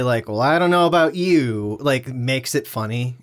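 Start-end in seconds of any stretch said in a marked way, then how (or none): 0.3-1.8 hillbilly Norm Macdonald. Retold or imitated. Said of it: "his, like, kind of hillbilly".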